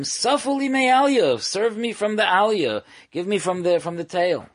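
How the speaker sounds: high-pitched, insistent request; imitating someone placing a demand; coached demand.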